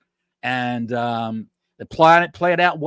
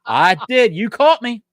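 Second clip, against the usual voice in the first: higher-pitched, caught-out laughing confession; laughing admission; 8 semitones higher, 5 dB louder than usual. Real, not acted. Podcaster caught in a slip of the tongue, laughing. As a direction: own up through a laugh.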